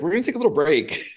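lifted, lightly voiced caring artist; tattoo artist's gentle voice. Artist telling the client to pause, lightly voiced. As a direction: play the kind artist easing off.

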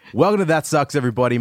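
upbeat podcast host welcome, pitched high; host intro. Shown as a demonstration. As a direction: open the show like a radio host. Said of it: "This happens every time".

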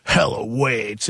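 slow, drawn-out devil voice; Satan voice. Retold or imitated. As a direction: intone it slowly like a demon. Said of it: "like, Satan's voice".

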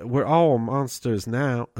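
a light attempt at a Southern drawl, slow; understated Southern accent. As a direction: imitate her Southern accent, half-heartedly, slowly. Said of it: "Her accent".

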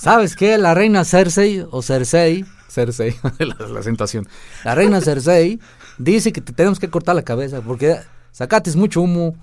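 loud, high rural Michoacán speech; mock-threaten with a Michoacán accent. Michoacán Cersei routine.

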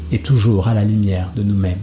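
measured spoken-word delivery with long pauses between lines; poetry recitation. Acted. Poet reciting verse about love and poetry to listeners, measured recitation. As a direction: recite it as verse, firm and deliberate, letting each phrase land. Recites a poem over music, then chats.

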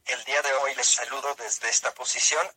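text-to-speech voice, even and mechanical; synthesized voice. Real, not acted. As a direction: speak like a computer speech synthesizer. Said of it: "esta es una voz sintetizada".

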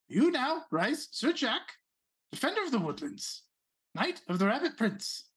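knight him with grave ceremony; solemn regal knighting. Acted. Prince knights the player.

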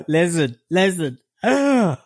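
high, gasping mock plea; begging woman. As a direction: gasp and plead, imitating a desperate woman. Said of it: "kept crying about her child".

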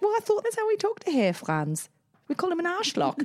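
put-on high little-kid voice; innocent child. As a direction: plead innocence as a small boy. Voicing the confused six-year-old.

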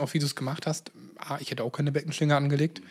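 strained tired voice; voice giving out. Real, not acted. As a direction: voice cracking and failing. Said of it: "meine Stimme versagt".

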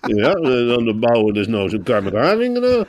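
high-pitched eager mock reply; voice across the room. Programme maker answering across the room, high eager mock voice. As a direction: pipe up high, playing an enthusiastic TV maker. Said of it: "hoor je in één keer uit de andere kant".

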